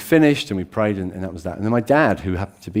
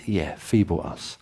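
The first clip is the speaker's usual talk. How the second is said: calm confirmation; 3 semitones lower, 5 dB quieter, slower than usual. Acted. Answering the question calmly.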